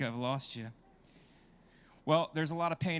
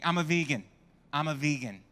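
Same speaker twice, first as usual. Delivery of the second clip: quoting his date; 4 dB louder than usual. Retold or imitated. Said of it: "first thing she said to me".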